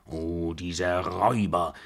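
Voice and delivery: put-on indignant old woman's exclamation; indignant cry. A narrator's reading. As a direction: exclaim in dismay at a swindle. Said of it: "rief sie, die Hände zusammenschlagend".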